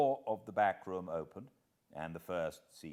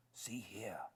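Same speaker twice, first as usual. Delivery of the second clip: urgent unvoiced whisper; 8 dB quieter than usual. Hiding man whispering to the butler, urgent whisper. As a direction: lean in and whisper it. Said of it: "I whispered".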